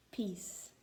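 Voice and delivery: soft unvoiced "Peace."; a gentle whispered command. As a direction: hush the storm with one word. Calming the storm.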